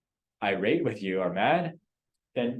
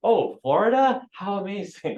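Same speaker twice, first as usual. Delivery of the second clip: mock Mike Ferry style; 10 semitones higher, 6 dB louder than usual. Agent gushing at a seller, mock fake enthusiasm. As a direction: gush over it like a salesy agent. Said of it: "like Mike Ferry style".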